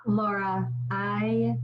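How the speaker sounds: choked up. Real, not acted. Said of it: "I'm trying not to cry right now".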